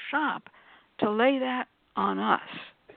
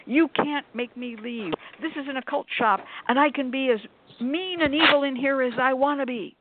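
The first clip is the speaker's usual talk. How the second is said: retold indignant shouting; 5 semitones higher than usual. Customer refusing to leave the occult shop, retold mild mock shout. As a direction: imitate a defiant customer's outburst. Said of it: "started shouting".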